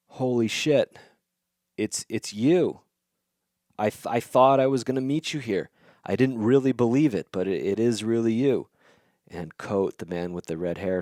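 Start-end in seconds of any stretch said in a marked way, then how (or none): 0.1-8.7 a bit higher and louder, stunned and thrilled; like meeting your hero in the flesh; awestruck recognition. Retold or imitated. Traveler realizing he has found the legend, excited and awed. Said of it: "the traveler realizes".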